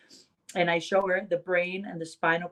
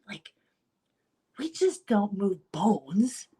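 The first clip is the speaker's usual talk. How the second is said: normal talking voice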